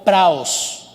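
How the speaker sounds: "praos" with the stress on the A. Shown as a demonstration. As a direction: say "praos" slowly, leaning on the A. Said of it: "con acento en la A".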